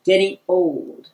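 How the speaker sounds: measured, rhythmic reading of a rhyme; wry poem about growing old; comic verse recital. Acted. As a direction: recite it in beats, drawing out line ends.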